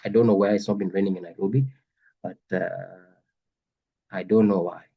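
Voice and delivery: talking through the flu; sick with flu. Real, not acted. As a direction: voice worn by a cold. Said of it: "I have the flu".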